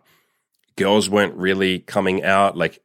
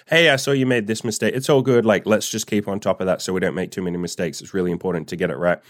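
friendly supervisor. Retold or imitated. A supervisor he never had, gently reminding him, lightly imitated friendly. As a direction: mock-friendly boss gently reminding a worker.

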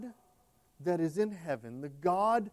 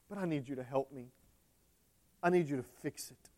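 quieter, humbler ask for help; softened plea; 6 dB quieter, faster than usual. Acted. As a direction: drop down and beg softly.

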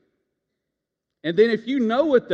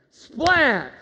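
a high, loud SPLAT, punched out; 8 semitones higher, 6 dB louder than usual. Shown as a demonstration. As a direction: shout the splat for the crowd. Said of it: "you gotta say it better than that".

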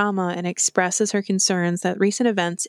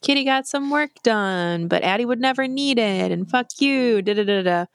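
semi-salacious dig; 3 semitones higher than usual. Retold or imitated. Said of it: "in, like, this kind of semi-salacious way".

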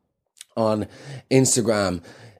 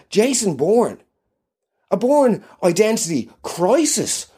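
higher, punchier Jason Bourne; dramatic Bourne; 8 semitones higher, slower than usual. Acted. Guest retrying his name, punchier action-hero voice. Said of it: "Tone it right down".

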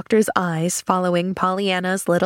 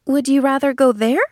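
put-on higher child's questioning voice; puzzled little girl; 6 semitones higher than usual. A narrator's reading. Girl asking where he'd rather go, innocently puzzled.

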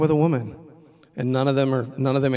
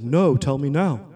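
louder and slow, pressing; slow insistent demand; 6 dB louder, slower than usual. Retold or imitated. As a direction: drag it out, demanding. Student insisting in quarrel.

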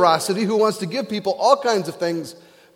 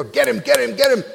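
higher, louder cry of get him; eager egging on; 7 semitones higher, 5 dB louder, faster than usual. Retold or imitated. Disciples urging the king to punish, loud eager cry. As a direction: egg the king on like a crowd.

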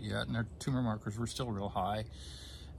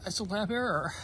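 choked up; 10 semitones higher than usual. Retold or imitated. Relives doctor's call, still choked up.

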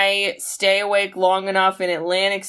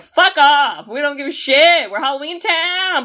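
a townie mob telling him off, pitched up; rude townsfolk; 6 semitones higher than usual. Retold or imitated. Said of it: "everyone's like".

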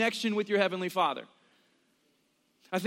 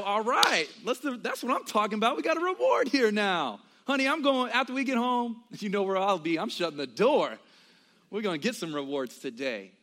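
eager congregation; 3 semitones higher than usual. Retold or imitated. Husband jokes to his wife about the promised reward, higher and eager. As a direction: ham up the glee at a reward. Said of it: "And we go".

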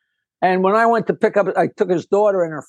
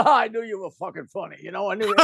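Rodney Dangerfield impression; 5 dB quieter, faster than usual. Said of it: "that impression is fantastic".

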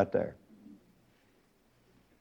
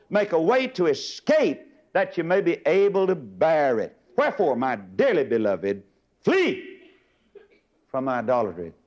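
preach; 3 semitones higher than usual. Acted. Preacher reading Corinthians aloud.

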